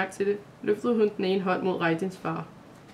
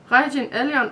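higher and louder, crying out through tears; tearful outburst; 6 semitones higher, 6 dB louder than usual. A narrator's reading. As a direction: burst out with both names, choked with relief. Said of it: "udbrød Maja igennem tårerne". (udbrud gennem tårer)

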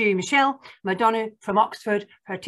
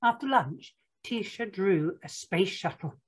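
picture-book narration; 3 semitones higher than usual. Acted. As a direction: read it to small children, spacing out the count.

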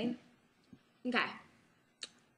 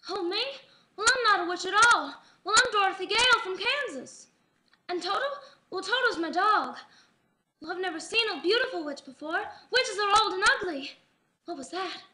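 high, lilting Dorothy from Wizard of Oz; swooping, sing-song Dorothy impression; a classic film star; 3 semitones higher, faster than usual. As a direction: play an old-film ingénue, pitched up. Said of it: "I'm doing Wizard of Oz".

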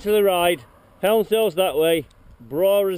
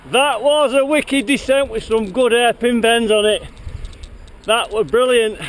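out of breath. Real, not acted. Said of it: "I'm out of breath now".

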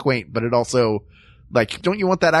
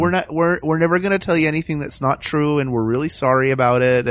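lightly put-on Midwest accent; earnest Fargo accent, apologetically friendly. Midwesterner promising straightforwardness, lightly done Fargo accent. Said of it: "the Fargo accent. There's something to that Midwest".

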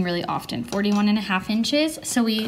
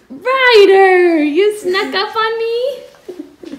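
startled; 11 semitones higher, 13 dB louder, much slower than usual. Real, not acted. Startled by child sneaking up.

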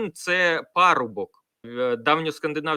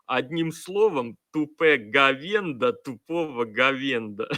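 Гоблін. Retold or imitated. Reading a sarcastic comment in the blogger's voice, light imitation. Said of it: "треба читати голосом Гобліна".

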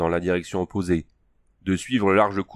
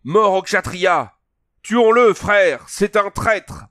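cri de mort; 12 semitones higher, 6 dB louder, much slower than usual. Acted. La troupe réclame la mort.

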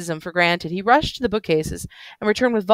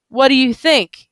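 put-on excited drunk man; 6 semitones higher, 5 dB louder than usual.

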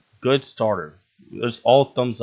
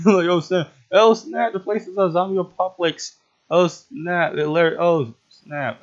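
much higher, louder panicked squeals; frantic panic; 9 semitones higher, 6 dB louder than usual. Real, not acted. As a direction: squeal in mock terror. Zombie apocalypse panic.

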